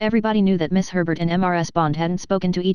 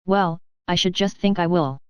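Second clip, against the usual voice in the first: slow, each word leaned on; mildly emphatic, taking her time; a girl's slow, firm yes. A narrator's reading. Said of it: "said Charlotte emphatically".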